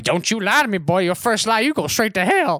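lightly voiced scolding old lady; mildly acted old-lady scolding; old woman. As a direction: imitate an old woman warning a boy. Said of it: "she was just like".

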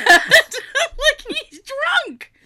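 high squeal through laughter; laughing hard. Real, not acted. Explaining drunk dad to Jay, laughing hard. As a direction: burst out with it, laughing.

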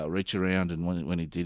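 usual speaking voice

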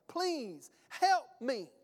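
slow, drawn-out plea; pleading. Retold or imitated. Father imploring the disciples to help his boy, slow pleading. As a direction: beg for help, one heavy word at a time.

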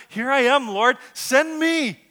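loud, high plea with a drawn-out end; crying out. Acted. Isaiah praying to the Lord, crying out loudly. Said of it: "He just cries out".

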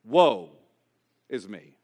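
low, dropping to near silence; prophet's lament. Acted. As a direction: let the curse sink into a hush. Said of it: "call a covenantal curse upon himself".

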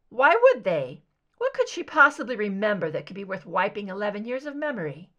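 loud, fast questions; loud demand. Acted. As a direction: press her hard. Scully demands.

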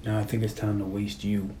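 very low, hushed gravelly menace; Cobra, gravelly. Retold or imitated. Cop threatening bad guy over the mic, gravelly. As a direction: threaten slowly in a soft, gravelly undertone. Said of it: "this was so gravelly".

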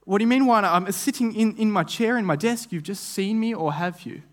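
indignant. Acted. Indignant reply to boss's email.

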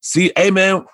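casual hype, inviting him out; Tony's voice. Retold or imitated. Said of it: "And Tony just was like".

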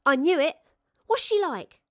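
high, loud burst of excitement; an excited girl's high voice; thrilled curiosity. Acted. Girl thrilled by the spy's story.

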